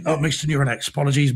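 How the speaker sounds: a worn, hoarse voice. Real, not acted. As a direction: voice going hoarse. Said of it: "My voice really has started to go".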